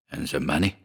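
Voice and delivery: low, soft, mildly impatient question. A narrator's reading. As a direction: press with a touch of impatience. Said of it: "asked the father impatiently".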